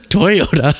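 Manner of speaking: lightly voiced Mister Toyota; imitating the old man. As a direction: say the name slowly and proudly like the old man. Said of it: "I can just picture him saying".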